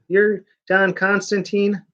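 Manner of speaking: light mock British accent; mock English accent. Reviewer mocking the comic's English dialogue in English accent. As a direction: toss off a faint English accent. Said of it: "that's how English people talk".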